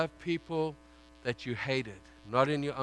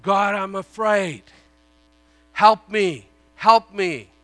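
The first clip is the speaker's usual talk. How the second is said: loud, pleading "Help me, help me"; acted fearful plea; 6 semitones higher, 11 dB louder, slower than usual. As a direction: cry out to God in mock fear. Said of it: "When he was afraid".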